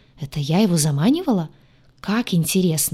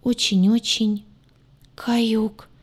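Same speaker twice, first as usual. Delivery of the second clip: slow, higher doomed sigh; 5 semitones higher, much slower than usual. A narrator's reading. Demon admitting his doom to the heroine, resigned. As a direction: breathe it out in resignation. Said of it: "обречённо выдохнул Двар".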